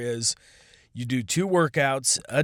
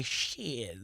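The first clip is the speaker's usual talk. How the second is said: soft shit; 8 dB quieter than usual. Shown as a demonstration. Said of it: "you can say it a lot of different ways".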